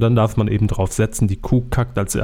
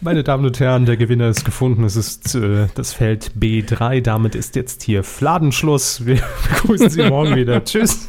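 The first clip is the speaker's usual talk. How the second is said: game show host announcing winner; hyped giveaway announcement. Pretend. Hosts mock game show result.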